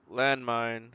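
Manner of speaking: sudden loud alarmed call; startled shout. Real, not acted. Gamer spotting a landmine by surprise, loud startled call. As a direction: jolt at a sudden danger.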